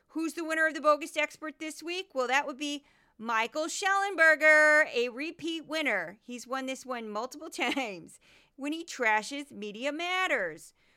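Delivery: silly, goofy, laid-on put-on Midwestern accent. Speaker announces this week's bogus expert winner; goofy Midwestern accent. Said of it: "that's my goofy voice".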